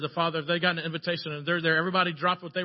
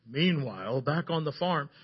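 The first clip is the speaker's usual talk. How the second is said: narrator voice; slower than usual. Acted. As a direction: set the scene like a voice-over. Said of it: "I had this narrator voice".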